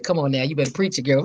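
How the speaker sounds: church cheer. Retold or imitated. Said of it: "I said".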